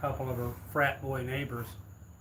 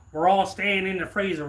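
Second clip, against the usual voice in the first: put-on insistent old woman; 6 semitones higher, 9 dB louder than usual. Old woman bargaining with robber.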